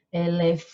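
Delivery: elefante with a very long held FAN; e-le-FAAAAN-te, low, stressed syllable stretched; calling out the word. Shown as a demonstration. Calls word to find stress.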